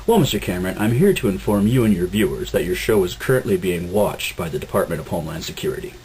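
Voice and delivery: low cold officer warning; stern captain voice. Acted. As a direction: warn them coldly. Captain warns host.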